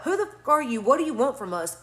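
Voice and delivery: retold yell. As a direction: yell it out, but held back as in storytelling. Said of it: "I yell out".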